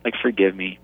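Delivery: soft, hushed repentant plea near tears; father moved to tears by his daughter, softly begging forgiveness; tearful prayer. Retold or imitated. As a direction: pray it quietly as if holding back tears. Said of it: "I was reduced to tears".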